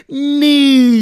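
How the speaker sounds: news bellowed high and long; Robin Williams shout. Shown as a demonstration. Podcaster demos the Robin Williams news call. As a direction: belt "News." like a radio DJ. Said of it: "Thank you, Robin Williams".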